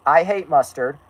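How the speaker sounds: lightly attempted cartoon character voice; Carl Wheezer. Shown as a demonstration. Speaker tries out the character's voice, light cartoon impression. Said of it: "do the Carl voice".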